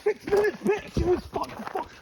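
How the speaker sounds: high, excited shouting; thrilled, can't believe the time; excited disbelief. Real, not acted. Hears his surprisingly long time.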